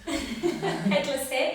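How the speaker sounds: drawn-out, amused echo broken by laughter; laughing. Real, not acted. Client echoing the instructor's joke about her head, laughing. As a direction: say it through a real laugh.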